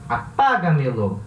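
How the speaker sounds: "Apaga-melo" with the second syllable PA stressed; "Apaga-melo" said as a-PA-ga-me-lo, falling after PA. Shown as a demonstration. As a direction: lean on PA in "Apaga-melo", then let it fall. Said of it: "A sílaba tônica é a quarta".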